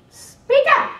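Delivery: high, loud "Speak up!" barked like a hard-of-hearing lady; imitating Dorothy. Dorothy mimicked telling attorneys to speak up loudly. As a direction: play the bossy colleague demanding volume. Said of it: "She goes".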